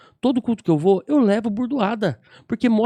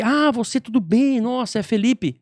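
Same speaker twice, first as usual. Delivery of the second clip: drawn-out, higher-pitched pleased greeting; effusive greeting; 4 semitones higher, slower than usual. Retold or imitated. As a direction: imitate a man delighted to recognize someone. Acts out the man's effusive greeting.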